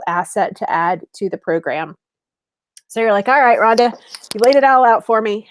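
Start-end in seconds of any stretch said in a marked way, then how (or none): 3.3-5.5 slightly louder, imagined client cutting in; lightly voiced client getting to the point; client's interjection. Client tells the coach she has laid it all out, lightly acted interjection.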